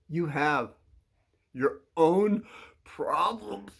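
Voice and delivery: broken into separate pieces with pauses; halting emphasis. Acted. Telling a kid off, halting emphasis. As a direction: pause after HAVE and OWN, then PROBLEMS alone. Acted telling-off, slow first take.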